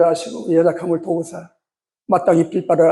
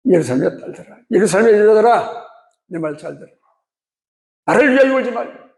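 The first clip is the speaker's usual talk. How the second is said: Jesus speaking; 3 semitones higher than usual. Acted. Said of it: "그때 예수님 멈춰서시고 하신 말씀".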